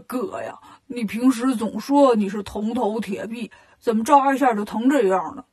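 chuckle, then teasing disbelief; Bajie laughing. Acted. Bajie teases Monkey King about his iron head, laughing. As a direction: tease a brother with an opening laugh. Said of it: "八戒就笑了".

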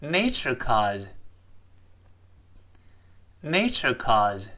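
slow model reading. Shown as a demonstration. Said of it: "我们再读一下这句话".

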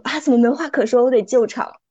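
hammed-up host panicking over silence; 慌着救场. (主持人假装慌张地要救场)

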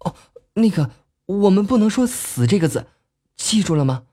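muffled behind a hand; hand over mouth. Acted. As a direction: speak through covered mouth. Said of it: "立即掩着嘴说道".

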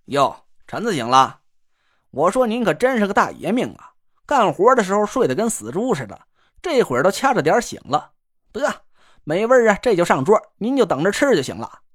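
lightly voiced teasing northern pal; cocky buddy voice. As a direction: needle your friend with a grin. The speaker teasing his friend.

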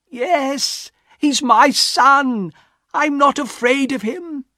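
high, impassioned insistence; defiant. A narrator's reading. Wife answers husband about her son, defiant.

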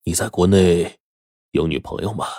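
tentative, careful question; cautious asking. A narrator's reading. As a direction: feel out the answer carefully. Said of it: "小心地问夏风说".

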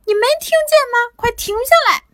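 high, urgent shouting; boy frantically yelling at the monster; frantic. A narrator's reading. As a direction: plead for him to stop now. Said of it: "萝卜这可急坏了".

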